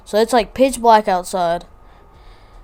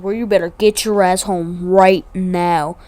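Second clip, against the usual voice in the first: imitated stern grandmother, in a near-usual pitch; 3 dB louder than usual. Grandma ordering grandson home, mildly stern imitation. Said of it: "Y'all ever got that stern?".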